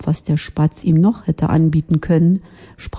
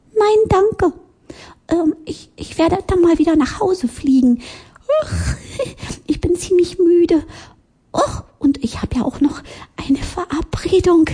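hohe Piepsstimme, eilig, will weg; hastiger Spatz; 13 semitones higher than usual. Acted. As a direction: Ausreden hervorsprudeln, hoch und schnell. (hoher Spatz, der sich hastig verabschiedet)

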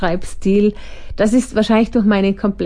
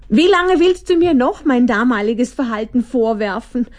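plaintive, higher whine; whining; 4 semitones higher than usual. Acted. Monsterchen Opfer whines at the Hyperkritiker, plaintive. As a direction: complain like a wounded victim. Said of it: "jammerte Monsterchen Opfer".

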